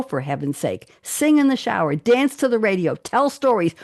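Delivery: earnest, uplifted quote reading; reading a quote aloud. Acted. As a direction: read it like an inspiring speech.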